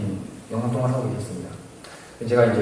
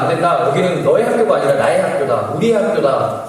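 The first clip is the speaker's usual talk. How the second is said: firm, raised, louder protest; indignant refusal; 4 semitones higher, 5 dB louder than usual. Retold or imitated. Student blocking an intruder from the school, indignant. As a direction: stand your ground, voice lifted. Acted quarrel over the school.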